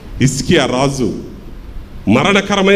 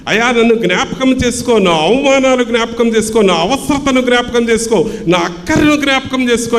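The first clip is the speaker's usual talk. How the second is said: higher-pitched retold plea, no actual crying; imitated tearful prayer; 6 semitones higher than usual. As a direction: plead as a praying Hannah, insistent and raised in pitch. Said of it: "కన్నీటితో ప్రార్థన చేస్తుంది".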